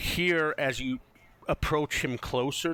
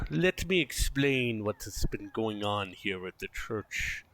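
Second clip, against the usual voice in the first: game master narration. A narrator's reading. Game master explains the church's history, storytelling narration. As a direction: tell the backstory with weighted pauses.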